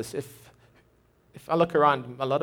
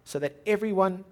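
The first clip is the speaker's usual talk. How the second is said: slow reading. Shown as a demonstration. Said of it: "So let me say that again".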